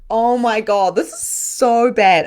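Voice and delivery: loud, high, stretched exclamation; mock-appalled outburst; retold shock. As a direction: exclaim it loudly, dragging out the end. Retold guilty amusement.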